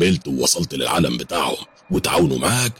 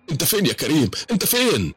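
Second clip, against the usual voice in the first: frightened calling; 11 semitones higher than usual. Acted. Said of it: "أزعق وأقول".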